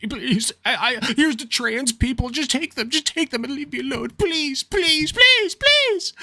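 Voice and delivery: pleading that climbs into a high squeal; mock desperate pleading. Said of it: "one of those, uh, gays against groomer types where they're like".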